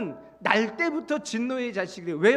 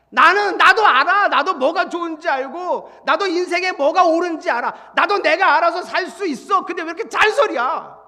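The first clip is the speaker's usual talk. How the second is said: resentful retort; 3 semitones higher, 5 dB louder than usual. Acted. Acting a resentful nagged person.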